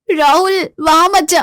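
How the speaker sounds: put-on high call to the kid; mother calling her son in a market. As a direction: stop the boy from afar.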